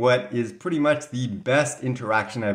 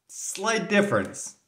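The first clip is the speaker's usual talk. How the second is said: dry sarcasm; 9 semitones higher than usual. Real, not acted. Ironic remark on contrast.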